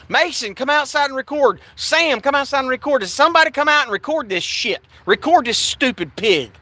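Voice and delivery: high-pitched retold yell for help. Yelling to housemates to film the arrest, retold high yell. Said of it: "I'm yelling".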